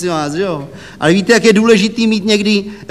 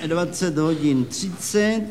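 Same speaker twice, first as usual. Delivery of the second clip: slow dictation; 3 semitones lower, 9 dB quieter, slower than usual. Acted. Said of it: "kolik to máme?".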